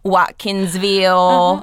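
slow drawn-out Georgia accent on Watkinsville. Shown as a demonstration. A Georgia native naming home towns in her Georgia accent. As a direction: drawl the town name like a Georgia local. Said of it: "I can do that accent".

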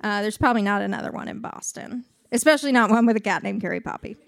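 talking with a swollen tongue; words thick from a swollen tongue. Real, not acted. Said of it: "my tongue is swollen".

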